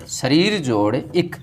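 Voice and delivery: शरीर जोड़ इक spelled out slowly, piece by piece; teacher slowly splitting the word; slow breakdown. Shown as a demonstration. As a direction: dictate each part slowly for students. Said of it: "किससे बना?".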